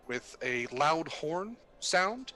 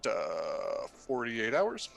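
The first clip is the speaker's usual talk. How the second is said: pilot announcement over intercom; captain on the PA, measured and calm; pilot cockpit headset. Acted. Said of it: "sounds like a legit pilot".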